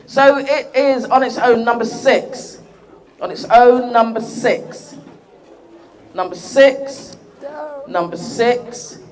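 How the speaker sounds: slow drawn-out number calling; bingo caller. Pretend. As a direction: stretch each number out like a bingo hall caller. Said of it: "calls raffle numbers, going going".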